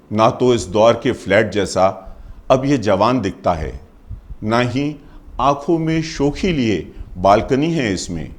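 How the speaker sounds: measured Hindi poem recital with pauses between lines; poem recitation. Acted. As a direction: recite it line by line, letting endings fall.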